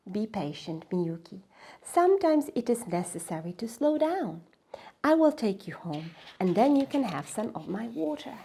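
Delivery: calm her down gently; soothing river. Acted.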